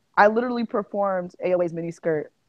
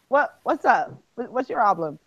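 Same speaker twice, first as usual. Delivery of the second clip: playful mock confrontation with a baby; teasing daycare voice, acting affronted; talking to babies; 3 semitones higher than usual. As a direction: sass back at a babbling toddler, pitch bouncing up. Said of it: "That's how I talk to the kids in my daycare".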